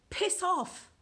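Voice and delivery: slow, deliberate piss off; slow mock dismissal; drawn-out command. Shown as a demonstration. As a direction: stretch the phrase out slowly. Presenting a phrase as a command.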